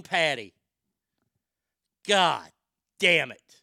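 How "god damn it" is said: angry curse. Acted. Angry at name Patty.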